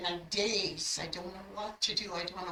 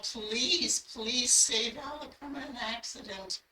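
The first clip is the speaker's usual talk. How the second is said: pleading, pitched a little higher; begging; 4 semitones higher, slower than usual. Retold or imitated. Praying to God for Alec, retold begging. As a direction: plead urgently, as in a retold prayer. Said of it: "I'm begging God".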